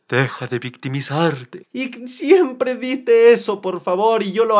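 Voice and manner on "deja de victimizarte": low, slow firm reprimand; stern coach telling you to stop self-pity; stern inner voice. Shown as a demonstration. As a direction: drag out the scolding, low and steady. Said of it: "Acuérdate de mi voz".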